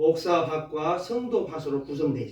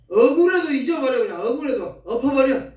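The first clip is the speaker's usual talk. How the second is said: forceful exhortation; 5 semitones higher, 4 dB louder than usual. Real, not acted. Preacher urges forgetting.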